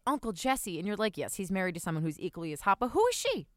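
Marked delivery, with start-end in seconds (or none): 1.2-3.5 mock puzzled. Imagined onlooker reaction.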